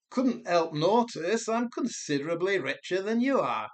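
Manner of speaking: put-on smug Brummie boast, accent not quite landing; failed Brummie accent. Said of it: "that Brummie guy that keeps saying".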